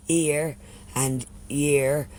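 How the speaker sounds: "ear and year" drawn out, sounding almost the same; two near-identical words. Shown as a demonstration. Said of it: "two words that sound the very same".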